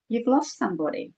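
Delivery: lightly acted hushed insight; imitated psychic pronouncement. Tarot reader to a new client, softly knowing.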